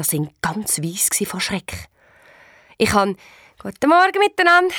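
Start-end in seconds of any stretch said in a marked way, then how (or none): 3.6-4.7 high, bright-spirited hello; cheery greeting. A narrator's reading. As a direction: breeze past them cheerily. Cheerful greeting to scared family.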